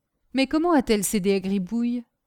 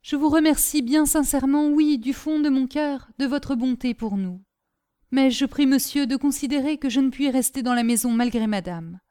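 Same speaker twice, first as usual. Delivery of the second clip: lightly voiced respectful maid, somewhat higher; earnest servant Caroline; 5 semitones higher than usual. Servant thanks master and insists on leaving, earnestly. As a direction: plead steadily and politely in a raised pitch.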